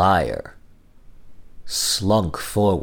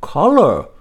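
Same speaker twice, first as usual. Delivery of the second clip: Owl; 6 semitones higher, 6 dB louder than usual. Acted. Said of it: "said Owl".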